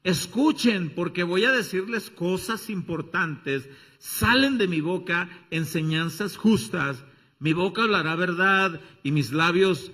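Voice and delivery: loud, urgent proclaiming; wisdom personified. Acted. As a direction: call out like Wisdom herself. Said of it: "Está personificando a la sabiduría".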